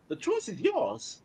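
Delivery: mock villain offering a choice; ominous villain. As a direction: menace them slowly.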